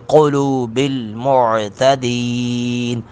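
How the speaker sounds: قلوب with ق full and heavy; heavy qaf. Shown as a demonstration. Teacher showing heavy qaf. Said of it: "قاف کو پر کر کے پڑھیں گے".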